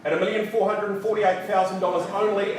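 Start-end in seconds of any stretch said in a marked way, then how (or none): 1.8-2.6 "only" set apart with pointed emphasis; stress on "only". Real, not acted. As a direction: lean on the word "only". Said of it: "I stress the word only".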